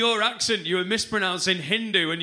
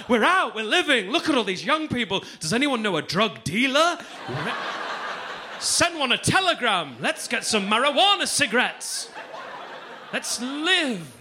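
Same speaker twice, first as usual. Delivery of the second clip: mock partying pensioner; 5 semitones higher than usual. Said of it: "you're really like".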